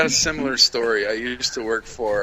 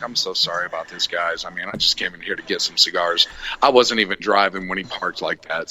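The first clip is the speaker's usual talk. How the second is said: apologetic; 4 semitones lower than usual. Retold or imitated. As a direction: apologize sheepishly. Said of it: "He's like".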